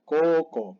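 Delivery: koko with pure, held Os; long O. Shown as a demonstration. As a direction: stretch koko to "kooko", no U. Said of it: "Doble O, muy importante".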